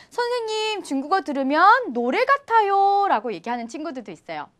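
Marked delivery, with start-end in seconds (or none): 0.1-3.1 lightly voiced student, higher singsong quote; imitating students. Students telling their teacher it sounds like songs, lightly imitated. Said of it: "친구들은 뭐라고 얘기하냐면요".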